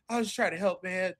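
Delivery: rising loud protest to a friend; from mild to loud shouted excuse; defensive protest. Acted. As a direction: plead your innocence, building. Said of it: "I turn around to Kovar and I go".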